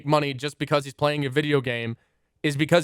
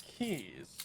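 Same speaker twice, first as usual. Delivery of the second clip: slow ritual listing; 7 dB quieter, much slower than usual. Shown as a demonstration. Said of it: "I'll show you".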